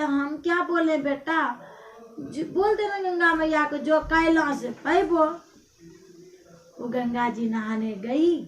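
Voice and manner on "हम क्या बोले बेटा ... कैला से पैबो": tearful mother-in-law. Acted. Mother-in-law answers, crying heard.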